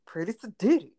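high, loud teasing echo; mimicking her sister. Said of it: "Why did you say it like that?".

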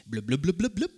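light bubbly blub-blub sound; bubbling noise. Shown as a demonstration. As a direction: show the crowd a bubbling spring sound. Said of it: "you're gonna make this noise".

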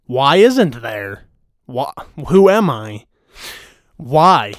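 mock-outraged questioning; indignant self-quote. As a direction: act out your own affronted reply. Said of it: "Me being R H said".

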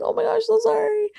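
high-pitched retold apology; mock apologetic. Embarrassed kids apologizing to the neighbor, mock apologetic. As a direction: squeak out a lightly hammed-up sorry.

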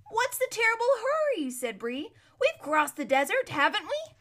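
high, loud complaining horse; grumbling horse. A narrator's reading. Bree the horse grumbles at Aravis for hurrying. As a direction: whine about the rush.

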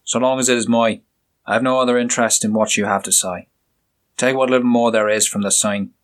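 the inspector, curt and scornful; stern inspector. Acted. Inspector dismissing the doctor.

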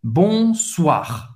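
"Bonsoir" com R final gutural; French bonsoir. Shown as a demonstration. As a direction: termine "Bonsoir" arranhando o R. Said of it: "esse R no final". ("Bonsoir" com R na garganta)

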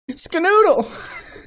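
high, slow, loud cartoon yell; silly punchline shout. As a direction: stretch the goofy punchline out.

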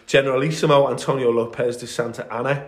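put-on lightly Spanish-accented name; a hint of a Spanish accent. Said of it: "in my best Spanish accent".

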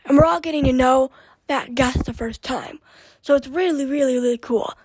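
talking while out of breath; breathless, catching air between words. Real, not acted. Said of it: "like, out of breath".

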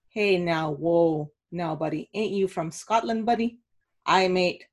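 light, self-conscious attempt at a Scottish accent; half-hearted Scottish accent, laughing at herself. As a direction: read the tweet in a halting amateur Scottish accent. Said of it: "do my very best at a Scottish accent".

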